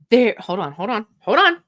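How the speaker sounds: halting, urgent Shatner-style hold on; lightly voiced Shatner bracing for a scare; William Shatner. Host acting the plane scene as Shatner, halting and urgent. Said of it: "my best William Shatner".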